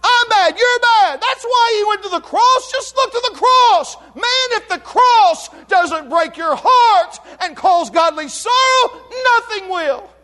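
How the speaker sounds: impassioned revival preaching; preaching at full force. Acted. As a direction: drive the cross home to the congregation.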